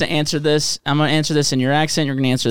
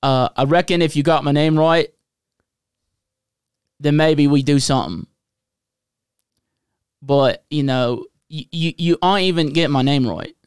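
halting mock-Aussie accent; attempted Australian accent. Host griping about his name in a put-on Australian accent. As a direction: put on an Australian accent, pausing to find the words. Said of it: "I'm gonna do an Australian".

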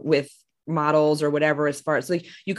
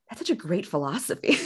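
mock admiration; 5 dB quieter than usual. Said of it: "I would ... be like".

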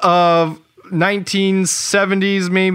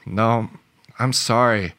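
deadpan nurse; 4 semitones lower, faster than usual. Retold or imitated. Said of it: "the nurse just shakes her head".

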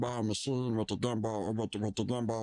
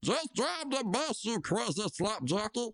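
mock scream; 8 semitones higher than usual. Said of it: "Jimmy screams back".

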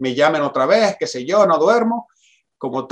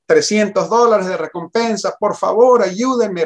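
begging, near tears; 4 semitones higher than usual. Retold or imitated. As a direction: imitate yourself begging for help. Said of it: "rogándoles, casi llorando".

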